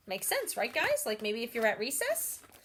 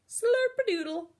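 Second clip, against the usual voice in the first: higher and louder, projected; strong speaker voice; 12 semitones higher, 6 dB louder than usual. Shown as a demonstration. Teacher demonstrating the strong speaker voice, projected. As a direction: project it to a group. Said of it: "halfway between your table talk ... outside".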